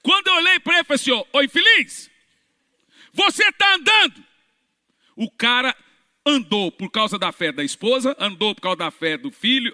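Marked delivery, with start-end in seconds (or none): 0.0-4.2 high, loud triumphant cry; excited outburst. Real, not acted. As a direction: shout the miracle in triumph. Clímax do milagre, excitado. (grito empolgado do milagre)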